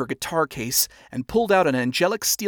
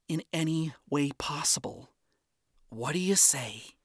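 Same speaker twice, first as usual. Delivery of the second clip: sincere; 3 semitones higher than usual. Acted. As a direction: offer help gently. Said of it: "strained but sincere smile".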